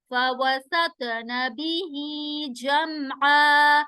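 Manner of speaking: slow chanted tajweed; Quran recitation. Shown as a demonstration. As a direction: recite slowly and melodically. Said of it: "मीम पर कलकला नहीं होगा".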